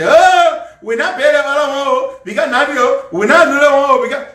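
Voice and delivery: mocking rattle of excuses; mock excuse-making. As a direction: imitate someone whining out excuses. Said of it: "run making excuses".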